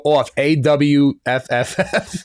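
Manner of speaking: Off stretched long as AWF; drawn-out Off. Retold or imitated. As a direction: drag out the vowel in Off, slowly. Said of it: "They go".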